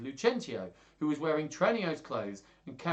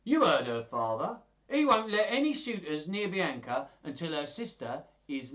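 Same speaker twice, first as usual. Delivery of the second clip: put-on servant voice, raised and louder; a higher character voice, speaking up to the master; Tranio; 5 semitones higher, 5 dB louder than usual. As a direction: pitch it up in a put-on voice. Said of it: "the voice I meant to use for Tranio".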